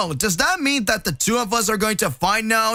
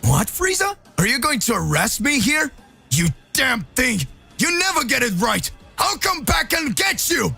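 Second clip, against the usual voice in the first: Goku yelling, much higher at the peaks; angry shout; 8 semitones higher than usual. Acted. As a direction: shout after the departing traitor. Goku yells at trapped.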